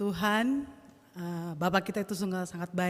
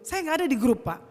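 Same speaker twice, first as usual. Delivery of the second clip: loud re-enacted complaint; retold heated protest; angry retort; 3 semitones higher, 6 dB louder than usual. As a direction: fire back at the coach. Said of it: "saya marah sekali".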